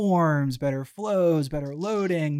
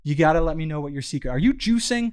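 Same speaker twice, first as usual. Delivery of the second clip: hyped-up greeting; 2 semitones higher, 6 dB louder than usual. Retold or imitated. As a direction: pump him up like a coach. Calling his field guy, hyped.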